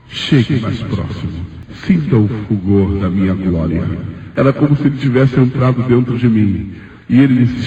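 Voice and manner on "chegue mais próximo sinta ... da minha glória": a hint of God beckoning, unhurried; lightly voiced divine voice. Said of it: "Ele me disse".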